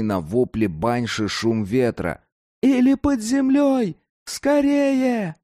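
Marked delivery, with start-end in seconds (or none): 2.6-5.4 high urgent shout over the wind. A narrator's reading. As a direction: yell to be heard in a storm. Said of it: "крикнул он".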